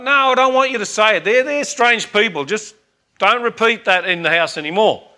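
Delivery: a mother hurriedly laying down the law; agitated mother. Retold or imitated. Mother forbids it again.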